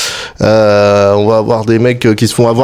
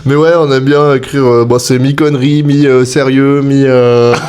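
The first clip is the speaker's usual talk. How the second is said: bouche grande ouverte. Real, not acted. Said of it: "c'est super dur de parler la bouche grande ouverte".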